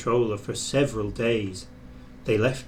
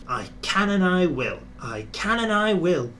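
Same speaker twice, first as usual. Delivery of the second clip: determined puffing; 6 semitones higher than usual. Acted. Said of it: "puffed James".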